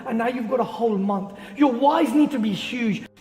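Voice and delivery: emphatic, driving motivational sermon; motivational preaching. Real, not acted. Urging listeners to find their vision before Ramadan, motivational preaching. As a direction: preach it with punchy rhetorical questions.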